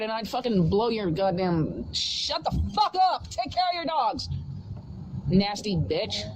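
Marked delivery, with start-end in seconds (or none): 1.9-4.3 yelling at the dog. Real, not acted. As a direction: yell at the neighbor's dog. Yelling at barking neighbor dog.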